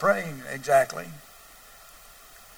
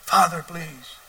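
hushed, imitated whispered plea; 5 dB quieter, much slower than usual. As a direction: start in a whisper, pleading under the breath. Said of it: "or a whisper".

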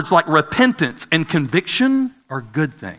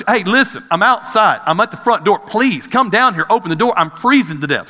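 urgent plea; 5 semitones higher, 4 dB louder than usual. Retold or imitated. Pleading outside in the cold.

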